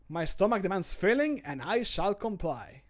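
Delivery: character voice line. Acted. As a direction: ham up the hunger then settle. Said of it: "recording game voice lines".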